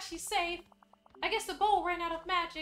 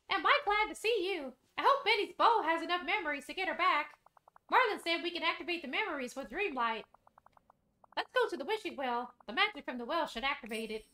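Mickey voice. Acted. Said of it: "get back to the voices".

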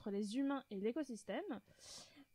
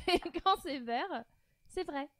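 higher, slowed rule announcement; game-host voice; 5 semitones higher, 3 dB louder than usual. Pretend. Resumes rules in game voice.

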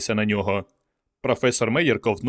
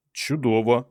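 careful; slower than usual. A narrator's reading. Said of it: "обережно мовив Мейер".

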